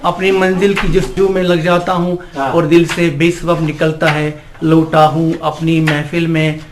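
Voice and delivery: animated Urdu nazm recitation; poem recitation. Acted. Amateur poet to an appreciative gathering, reciting his nazm. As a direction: recite verse with measured line breaks.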